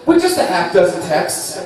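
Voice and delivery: mock TV ad voice; infomercial pitch. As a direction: sell it like a late night ad.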